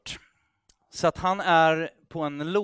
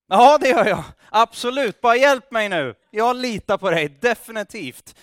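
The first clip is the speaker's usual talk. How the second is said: higher, louder frantic assurance; desperate pleading; 7 semitones higher, 10 dB louder than usual. Retold or imitated. Climber in the dark frantically assures God, loud and high. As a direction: beg for rescue, all in.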